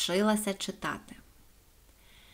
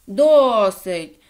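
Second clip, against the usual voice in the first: much louder alarmed cry; frightened shout; 13 dB louder than usual. A narrator's reading. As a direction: yell to make it stop. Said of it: "перелякано закричав Іван Іванич".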